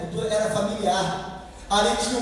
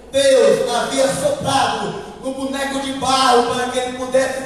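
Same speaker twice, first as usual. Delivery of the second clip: raised, driving sermon voice; forceful preaching; 3 semitones higher, 5 dB louder than usual. Real, not acted. Preacher explaining the call by name, forceful. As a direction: press the point home to the congregation.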